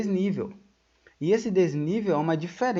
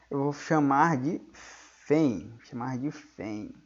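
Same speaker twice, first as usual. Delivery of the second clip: slow emphasis; 3 semitones lower, much slower than usual. Shown as a demonstration. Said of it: "em vez de falar força eletromotriz".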